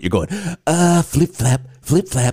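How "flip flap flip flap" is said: rhythmic flip flap money sounds; flapping noises. Shown as a demonstration. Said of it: "you gotta make the noise while you do it".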